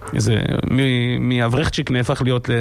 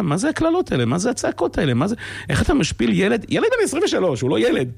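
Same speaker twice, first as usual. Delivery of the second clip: higher-pitched outraged questions; pitched-up indignant retold scolding; indignant rebuke; 9 semitones higher than usual. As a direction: put the rabbi in his place, indignant. Retelling telling off the mashgiach.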